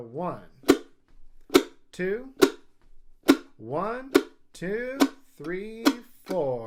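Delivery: two slow counts, then fast. Showing how to count in a jam session: two slow counts, then quick. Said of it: "give it two slow counts".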